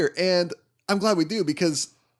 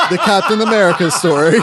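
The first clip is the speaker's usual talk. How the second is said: loud, laughing punchline; real laughter bubbling over; 8 semitones higher, 8 dB louder than usual. Real, not acted. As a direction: squeeze it out through laughter. Laughing after singing the song.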